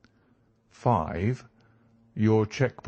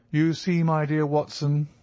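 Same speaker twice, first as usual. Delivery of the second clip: lightly voiced lecturer, pitched higher; lecturing professor; 6 semitones higher than usual. A narrator's reading. Holmes to Watson as if addressing his class, lightly professorial. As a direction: open the lecture on a higher note, a hint of professor. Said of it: "began to lecture with the air".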